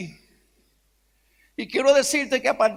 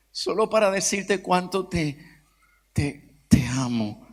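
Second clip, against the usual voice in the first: choked up; 5 semitones lower than usual. Real, not acted. Writing te amo to father.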